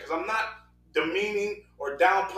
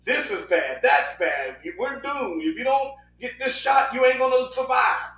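lightly mimicked doom-monger, piling up warnings; a hint of a hectoring news voice; mock alarmist newscaster; 2 semitones higher than usual. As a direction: imitate the news pumping out fear. Mimicking fearmongering six o'clock news.

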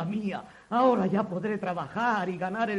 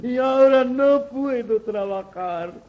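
fake lamenting. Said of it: "con falsas demostraciones de desconsuelo".

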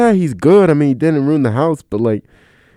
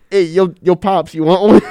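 put-on higher, louder cocky little kid calling his dad; 7 semitones higher, 5 dB louder than usual. Son offering his dad a stogie, mock kid swagger. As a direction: play the eight-year-old offering his dad a cigar. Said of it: "He's like".

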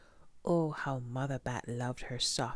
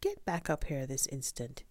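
scolding; 8 semitones higher than usual. A narrator's reading. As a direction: scold them back into the nest. Mother bird scolding babies.

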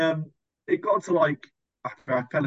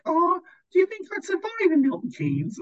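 mock dim camper. Imitating the other camper.

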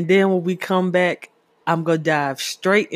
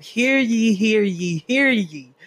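mock town crier proclamation; 6 semitones higher, slower than usual. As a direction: call it out like a herald.

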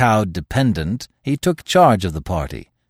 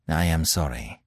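almost humbly; 5 semitones lower, 6 dB quieter than usual. A narrator's reading. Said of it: "he said almost humbly".

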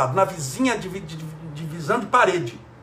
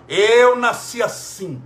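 slow, louder and defiant; stubborn husband; 2 semitones higher, 4 dB louder, slower than usual. Retold or imitated. The nervous husband answering his wife, slow and defiant. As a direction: dig in your heels like the nervous husband.

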